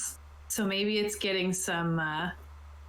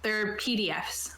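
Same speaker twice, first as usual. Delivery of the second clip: slow unvoiced whisper. Real, not acted. Reassuring a friend that the files are safe, whispered. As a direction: hush it like a secret.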